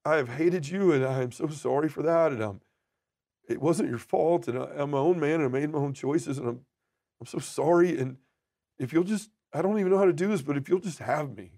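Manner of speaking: high, pleading apology; contrite prayer. Retold or imitated. Prodigal man saying sorry to God, contrite and pleading.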